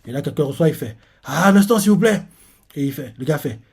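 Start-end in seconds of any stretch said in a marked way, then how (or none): 1.2-2.2 lightly voiced attendant. Acts attendant receiving a visitor.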